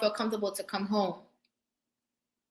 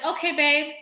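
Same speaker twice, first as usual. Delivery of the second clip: wife's flat reply; 4 semitones higher than usual. Retold or imitated. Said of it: "And she said".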